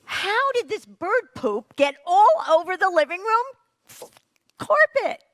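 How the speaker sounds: high, loud furious shout. Retold or imitated. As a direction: yell in shock at the carpet. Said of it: "Hannah shouted".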